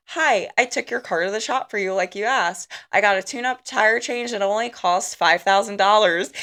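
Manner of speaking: flat monotone robot voice. Retold or imitated. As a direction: speak like a calm, cheerful robot. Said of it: "in a robot voice".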